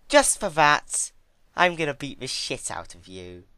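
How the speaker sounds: menacing threat. A narrator's reading. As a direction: spit the threat out. Twilight threatening violence.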